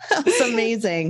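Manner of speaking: a teary laugh, then amazed; laughing through tears. Real, not acted. Co-host moved by her friend's story, laughing through tears. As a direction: laugh and choke up together.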